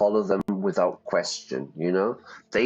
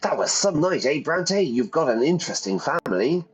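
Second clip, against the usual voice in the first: character voice; 5 semitones higher, faster than usual. Acted. Voicing Bronte character.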